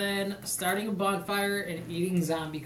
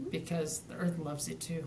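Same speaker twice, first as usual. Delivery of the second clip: commercial voice; 5 semitones lower, 12 dB quieter than usual. Acted. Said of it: "You gotta do that head crank at the end".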